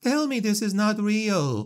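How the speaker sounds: very high, desperate pleading, really drawn out. A woman going into labour begs the woman beside her, in desperation. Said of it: "said Elizabeth in desperation".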